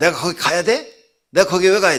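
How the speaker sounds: rude, disrespectful tone.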